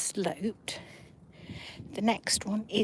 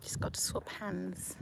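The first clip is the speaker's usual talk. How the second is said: whispering; 11 dB quieter than usual. Real, not acted. Quiet bench by the sea.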